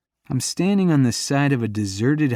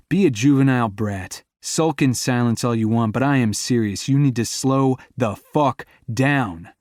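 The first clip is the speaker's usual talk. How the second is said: scolding, louder and heated; angry scolding; 2 semitones higher, 3 dB louder than usual. Acted. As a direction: tell her off, deadly serious. Scolding her reckless driving.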